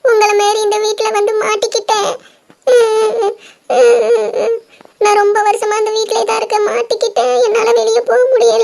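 acted sobbing confession; crying girl, trapped and helpless; tearful. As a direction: wail it helplessly between sobs. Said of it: "நீ எதுக்கு அழுதுகிட்டே இருக்க".

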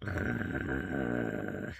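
long, low "ugh"; groan of disgust. Real, not acted. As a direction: groan low and drawn out after a strong mouthful. Groan after taking brandy drops.

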